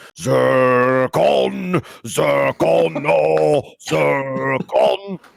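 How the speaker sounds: very slow, drawn-out, creaky, tearful crying call. Describing a battle scene, voicing someone off to the side: yelling. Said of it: "you hear yelling like".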